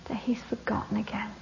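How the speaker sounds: hushed realisation. Acted. Dawning realisation in story.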